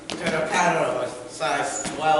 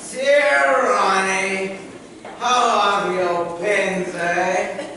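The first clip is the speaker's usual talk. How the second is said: grand letter voice; 3 semitones higher, slower than usual. Acted.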